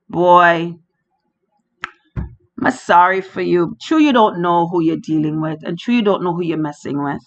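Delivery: mock sympathy with a hidden threat; pitying, menacing. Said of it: "The love is the love of pity".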